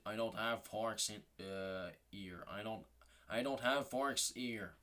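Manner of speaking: slow English with a mock Chinese accent; lightly done Chinese accent in English. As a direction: imitate the waiter in a Chinese accent, slowly. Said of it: "Avec un, un accent chinois".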